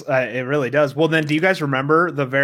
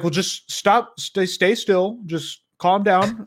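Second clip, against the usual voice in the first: slow, higher mock soothing voice; mock calming friend; 5 semitones higher, much slower than usual. Friend calming a panicking teammate, mock soothing slow voice. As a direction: imitate a buddy talking him down, slowly. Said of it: "he's like".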